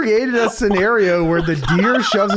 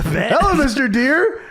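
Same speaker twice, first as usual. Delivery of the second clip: Hollywood Rock impression; 5 semitones higher, slower than usual. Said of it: "Can I please do the Hollywood thing now?".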